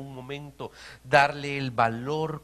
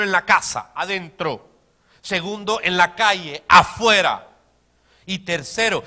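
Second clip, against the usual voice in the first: full-voiced preacher's shout; loud shouted emphasis; 3 semitones higher, 9 dB louder than usual. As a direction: belt the word out to the room.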